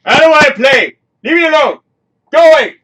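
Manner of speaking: high, loud whiny tantrum; childish whine. Retold or imitated. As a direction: whine like a kid who won't join in. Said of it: "I'm sitting there like this".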